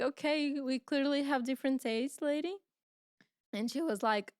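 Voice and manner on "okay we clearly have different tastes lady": sarcastic brush-off. Retold or imitated. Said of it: "And we're like".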